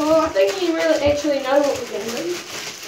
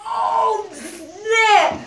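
laughing from the cold; much slower than usual. Real, not acted. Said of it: "is freezing".

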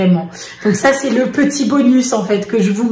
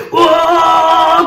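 mock wail; 5 semitones higher, 4 dB louder than usual. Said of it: "Eric il fait".

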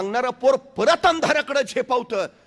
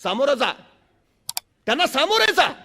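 higher, commanding call to stop; thundering sadhu; 4 semitones higher than usual. Retold or imitated. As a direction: bark at him to stand and face them. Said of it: "एक साधू कडाडला". (साधूचा कडाडणारा, उंच आज्ञा देणारा आवाज)

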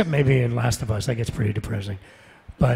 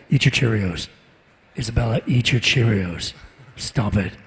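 a touch of game hero in a father's order; Adam Jensen; 2 semitones lower than usual. Retold or imitated. Dad ordering his kid to eat, lightly put-on hero voice. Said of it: "why are you talking like Jensen?".

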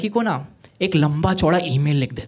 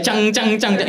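imitated ukulele strum; 4 semitones higher than usual. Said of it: "उसमें से आदमी बजाता है".

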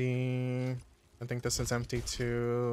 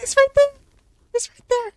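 high, loud excited shout; 12 dB louder than usual. Real, not acted. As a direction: call it out urgently. Spotting enemy, alerting crew.

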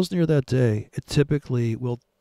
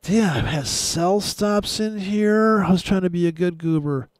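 mock frustrated trader; 5 semitones higher than usual. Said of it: "be like".

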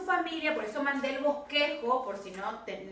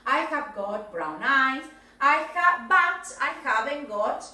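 slow, louder example sentences; model presentation; 5 dB louder, slower than usual. Shown as a demonstration. Teacher shows Brian how to present, slow deliberate model. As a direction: lay out each phrase deliberately for a learner. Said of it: "tenías que presentar así".

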